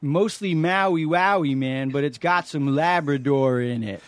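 very slow stoner drawl; Man Stoner. Acted. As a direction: drag the words out like a stoned hippie. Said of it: "I'm gonna be Man Stoner".

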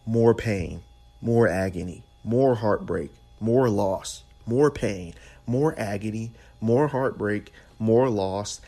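emphatic litany. Real, not acted. Preacher pounding out the list of pains. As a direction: hammer every line of the list.

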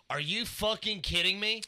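indignant mock rant at the kid; retold outrage. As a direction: act out the disbelief, drawn out.

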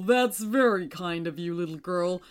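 distinct kindly moon voice. A narrator's reading. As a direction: answer gently as the moon.

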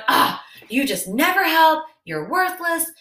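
hammed-up angry wife ranting at husband; mock angry name calling. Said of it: "start the name calling and going".

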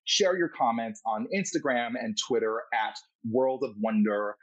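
lilting, animated outro read; podcast host sign-off. Acted. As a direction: send the listeners off with deliberate, showy emphasis. Host reads the show's outro.

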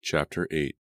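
plain reading voice

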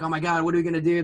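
rushed mild mock panic; retold fluster, only slightly worked up; freaking out, retold. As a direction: blurt it out quickly, imitating a panicking friend. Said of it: "freaking out".

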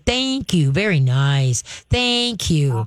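calm, even praise; trainer's calm thank you to the dog. Shown as a demonstration. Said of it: "you just very calmly go".

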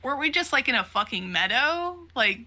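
high-pitched retold disbelief; flipping out. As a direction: act out baffled, rising panic without shouting. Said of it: "he is finally flipping his shit too".

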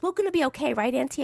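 mildly worried child, imitated; concerned niece. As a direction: lightly voice a niece seeking reassurance. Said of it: "So she got really concerned".

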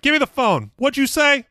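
imitating a yell. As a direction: bark it back like a furious mobster. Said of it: "fucking yelling back at him".

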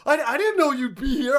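high, faked innocent surprise; imitating a poor act of innocence; playing dumb. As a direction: pretend surprise while close to laughing. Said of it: "Steve tries to play dumb".

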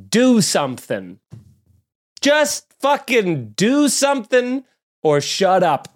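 slow exasperated rant. Real, not acted. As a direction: spell out each word, fed up. Ranting message to Russia.

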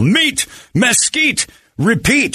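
drawn-out high slogan; slow slogan. Acted. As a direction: stretch each word of the slogan high.

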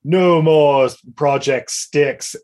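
slow, deliberate commanding voice; disguised as Dredd. Retold or imitated. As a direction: give the order with cold authority. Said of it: "and he's like".

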